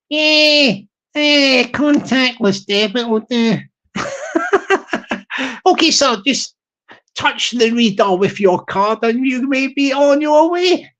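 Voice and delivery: a hint of an eager Glasgow shop assistant; shop worker voice. Shop server flattering the wee guy's hat, lightly put-on eager voice.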